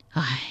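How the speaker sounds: put-on soft long sigh of the old mother; old mother sighing before refusing her daughter, soft. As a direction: let out a weary sigh. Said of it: "福老太太长叹一声".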